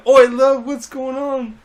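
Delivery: high, hammed-up British teacher; mock British accent. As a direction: play a British teacher calling out. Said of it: "trying to do a British accent".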